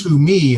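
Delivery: "to me" pressed firmly; emphatic contrast. Shown as a demonstration. Teacher demonstrates emphasis of contrast, "to me" stressed. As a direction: stress "to me" to rule out the other person. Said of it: "That would be the emphasis".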